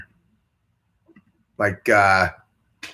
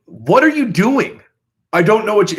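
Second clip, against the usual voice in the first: mock baffled shriek; 9 semitones higher, 6 dB louder than usual. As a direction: squeal it like a lost castmate. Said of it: "you're like".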